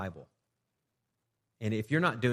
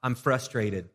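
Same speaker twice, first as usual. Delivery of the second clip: sample prayer; 3 semitones higher, 5 dB louder, slower than usual. Shown as a demonstration. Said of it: "You say".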